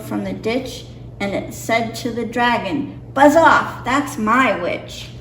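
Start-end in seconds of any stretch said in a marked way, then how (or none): 3.1-5.1 growling beast. Acted. Beast chasing the dragon from its witch, loud snarl. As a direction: bark it out like a monster. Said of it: "a jowl and a growl and a croak and a shriek".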